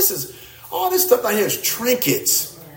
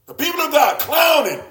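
shout; 9 semitones higher than usual. Real, not acted. Preacher shouting at his congregation about clowning. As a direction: call it out in mock outrage.

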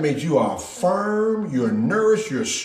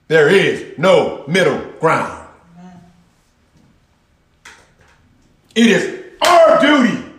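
full-force preaching; 5 semitones higher, 5 dB louder than usual. Acted. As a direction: preach it out loud and strong, building.

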